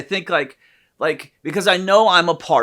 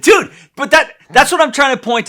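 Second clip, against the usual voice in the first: high, loud laughing protest; real laugh on dude; 8 semitones higher, 7 dB louder than usual. Real, not acted. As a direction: laugh it out before continuing. Laughing back at friend.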